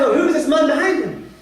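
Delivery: mild surprise, voice lifted; retold surprise. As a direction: lightly play a surprised king. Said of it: "We're surprised".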